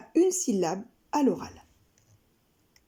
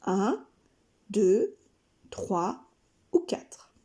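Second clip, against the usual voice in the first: counting off; 2 semitones lower, much slower than usual. Shown as a demonstration. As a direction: count slowly, fading to a whisper. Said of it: "un petit papier … chaque syllabe".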